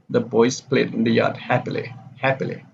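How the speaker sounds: statement falling on "happily", then that word alone; falling intonation. Shown as a demonstration. Teacher isolates the last word for class, "happily" falling. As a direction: drop the tune on "happily". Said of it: "happily here is the falling intonation".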